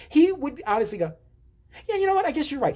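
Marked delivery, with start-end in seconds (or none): 1.9-2.7 dopey agreement. Retold or imitated. Brother agreeing dopily.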